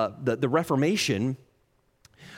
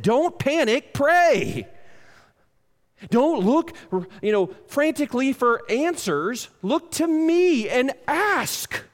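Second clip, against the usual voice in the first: higher, pleading voice of God; God urging calm; 8 semitones higher, slower than usual. Acted. God's words paraphrased, urging calm.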